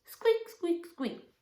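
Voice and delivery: very high, tiny squeaks; mouse squeak. Pretend. Practising the story cue with children, tiny high squeaks. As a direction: give your best little mouse. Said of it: "best mouse with that squeak".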